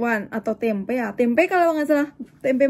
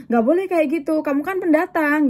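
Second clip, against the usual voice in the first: raised-pitch retold admonishing; imitated well-meant scolding; 4 semitones higher than usual. Older woman warns the newcomer, imitated well-meant scolding. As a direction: lecture her protectively, acting it out. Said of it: "marahnya sih bener ya, dalam kebaikan".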